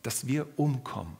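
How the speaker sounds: desperate, high, loud shout of drowning men; frantic disciples shouting to wake Jesus; panicked cry for help. Retold or imitated. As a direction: yell it like the boat is sinking under you. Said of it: "und riefen".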